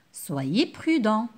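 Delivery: slow "Soyez prudent" leaning on prudent; slow caring warning; gentle advice. Shown as a demonstration. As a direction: advise the listener calmly and slowly. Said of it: "Je donne un conseil".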